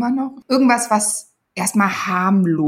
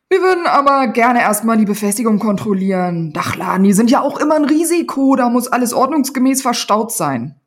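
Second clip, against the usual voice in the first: a louder, brisk official tone, by the book; officious policeman; 2 semitones higher, 4 dB louder than usual. Acted. Policeman insisting on checking the roof rack, officious and loud. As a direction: insist on the rules.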